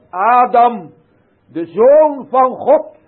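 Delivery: loud, high, slow proclamation of "Adam"; full-force preaching. Acted. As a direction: call the name out over the whole church. (luid en hoog uitgeroepen, langzaam)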